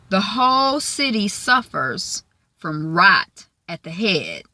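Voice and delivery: a slow, measured crime boss, lightly voiced. Big boss warning about rot, slow and measured. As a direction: draw each phrase out like a solemn boss. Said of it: "I'm saying it like that".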